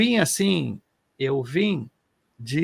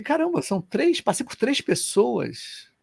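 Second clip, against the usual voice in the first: mock amazement; 6 semitones higher, slower than usual. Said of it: "Aí eu falei".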